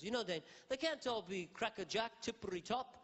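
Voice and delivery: Impression of a singer. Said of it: "He goes".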